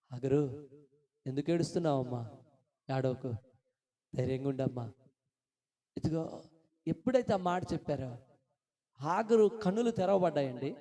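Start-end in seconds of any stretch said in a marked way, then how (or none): 0.1-4.9 low, softened comforting voice; gentle consoling. Acted. God comforts weeping Hagar, gentle consoling. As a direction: soothe someone who is weeping.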